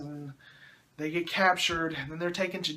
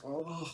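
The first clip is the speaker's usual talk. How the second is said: soft, disgusted ugh; cringing groan; 10 dB quieter than usual. Real, not acted. Cringing at the dialogue.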